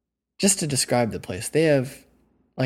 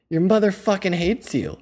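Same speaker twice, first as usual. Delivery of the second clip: mock furious insult, higher and louder; angry yelling; 9 semitones higher, 5 dB louder than usual. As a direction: hurl it like an irate woman, retold. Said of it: "yelling at my face".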